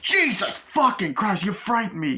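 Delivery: high, loud, drawn-out swearing in shock; acted startled outburst. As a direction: jump out of your skin, hammed up. Acting out the startled driver.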